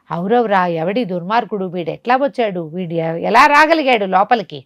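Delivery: startled, rising alarm in the voice; a sorcerer shocked someone slipped in; astonished sorcerer. Acted. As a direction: voice jumping up in disbelief. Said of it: "ఆశ్చర్యపోయాడు".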